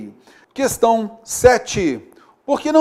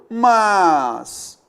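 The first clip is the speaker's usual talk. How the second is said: put-on child asking; much slower than usual. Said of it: "E a criança continua".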